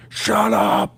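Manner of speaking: mock high-pitched yell; retold yell. Streamer yells at his crying son, mock high yell. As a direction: imitate a yell without full volume. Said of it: "he just yells in his face".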